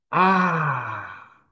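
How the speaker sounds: long open "ah"; open-mouthed sigh of "ah"; drawn-out interjection. Shown as a demonstration. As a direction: let out a long falling "aah". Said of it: "Começa com a interjeição".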